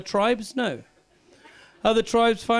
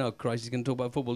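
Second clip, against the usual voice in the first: weary groan; 9 semitones lower, 10 dB quieter, faster than usual. Retold or imitated. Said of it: "see somebody lazy going".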